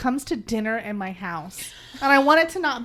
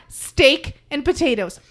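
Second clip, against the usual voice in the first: bossy dinner decree; 6 dB louder than usual. Pretend. Declares dinner to family.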